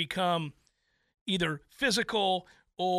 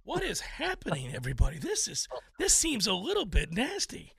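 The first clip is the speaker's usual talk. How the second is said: flustered pearl-clutcher; 4 dB quieter than usual. Retold or imitated. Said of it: "flustered, clutching his pearls".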